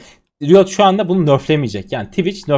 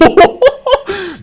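shrill delighted laugh; high burst of laughter; 7 dB louder than usual. Real, not acted. Gamer laughs at his huge damage number, high and loud. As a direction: laugh out in disbelief.

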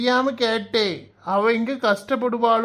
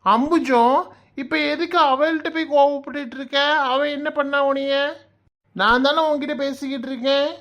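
higher, sharp scolding tone; angry rebuke; 4 semitones higher than usual. Acted. Husband scolds wife for snapping at daughter, angry higher voice. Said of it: "எதுக்கு கோவப்பட்டுக்கிட்டு இருக்க".

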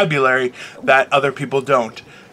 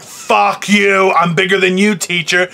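hammed-up kid defying a teacher, higher pitch; acted tantrum, raised voice; retold defiant outburst; 4 semitones higher, slower than usual. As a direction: build to a mock-furious demand, stretching the last words.

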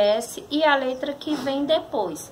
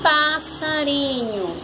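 "passarinho" slowly, as one joined word; palavra juntada; slower than usual. Shown as a demonstration. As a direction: draw "passarinho" out smoothly as a whole. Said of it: "formou a palavra". ("passarinho" devagar, palavra inteira)

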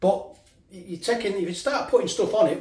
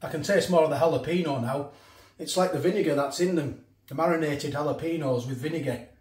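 talking while chewing pizza; words round a mouthful of food; mouth full. Real, not acted. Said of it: "talking with my mouth full".

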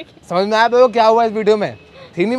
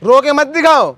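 loud, scolding and dismissive; angry shout; 5 semitones higher, 4 dB louder than usual. Acted. Boyfriend scolding the crying girl, angry loud shout. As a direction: snap at her to stop the crying act. Staged fight, accusing her of fake crying.

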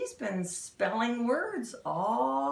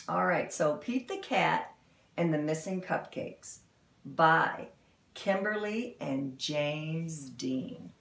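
lively storybook read-aloud; animated picture-book narration; reading to children; 3 semitones lower than usual. Acted. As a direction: read it like storytime for little kids.

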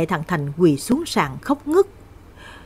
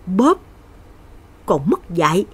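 angry stepfather. Acted. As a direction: bark it like a drunk brute. Stepfather slaps and curses Lan.

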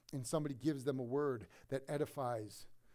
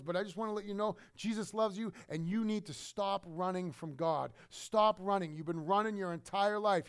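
louder pleading pastor voice; urgent plea; 3 semitones higher, 3 dB louder than usual. Retold or imitated. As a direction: urge him to stop running. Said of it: "He goes".

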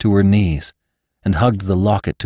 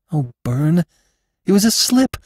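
much higher, anxious woman's voice; distressed Jane; 10 semitones higher than usual. Acted. Jane defends herself to Venters, high and anxious. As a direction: plead it was an accident.

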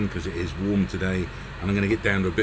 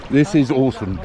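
excited river ride; 4 semitones higher, 3 dB louder than usual. Real, not acted. Floating down river, thrilled.

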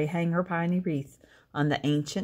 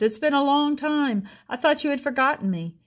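lightly voiced old armadillo; 8 semitones higher than usual. A narrator's reading.

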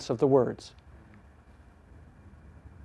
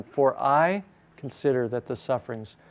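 I leaned on above the other words; stress on I. Shown as a demonstration. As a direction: put the weight on the word I. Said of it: "I may emphasize a new word each time".

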